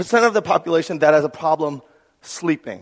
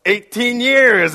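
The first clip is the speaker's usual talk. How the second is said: high, loud, drawn-out jeer breaking into laughter; mocking chuckle; 6 semitones higher, 6 dB louder, much slower than usual. Older dad teasing a new dad, mocking and chuckling. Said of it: "And they're chuckling. They're making fun of me".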